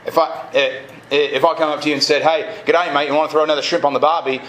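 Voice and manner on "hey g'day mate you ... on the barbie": badly faked Australian greeting, said quickly; bad Australian accent. Shown as a demonstration. Preacher greeting someone as a fake Aussie, bad Australian accent. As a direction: put on a rough, amateur Australian accent. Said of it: "that's a really bad Australian accent".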